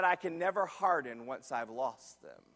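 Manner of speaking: low, soft, grave quote; hushed retold confession. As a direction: drop low and soft to confide the teacher's reason. Retelling teacher's sobering confession.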